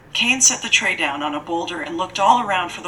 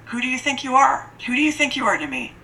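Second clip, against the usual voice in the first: higher, fast mock scream at the girl; 7 semitones higher than usual. A narrator's reading. Lady screaming at the girl in rage, high and rushed. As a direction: rattle it off high, like a rant. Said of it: "she screamed all the more at her".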